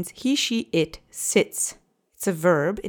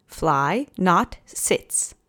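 slow literal gloss; much slower than usual. Shown as a demonstration. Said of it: "which literally translates to".

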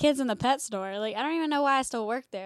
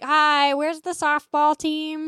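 drawn-out, raised mock inquiry; retold calling out; 4 semitones higher, 3 dB louder, slower than usual. Store worker asking restaurant staff for softball parents, mock calling out. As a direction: stretch it out as if addressing the room. Acts herself hunting for parents.

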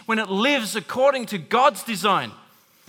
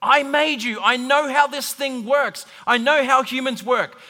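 God speaking; 4 semitones higher, 5 dB louder than usual. Acted. God voiced, emphatic declaration.

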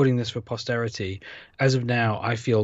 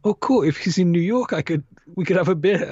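mildly excited, higher-pitched recalled thought; eager thought; 8 semitones higher than usual. Retold or imitated. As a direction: lift the pitch, acting out your own hopeful first thought. Voices own eager first thought.

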